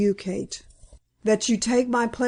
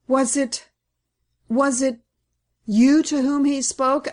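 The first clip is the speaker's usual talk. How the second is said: higher and urgent, faltering on the repeated words; anxious cry; 4 semitones higher than usual. Acted. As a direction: press him in sudden alarm. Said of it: "I cried".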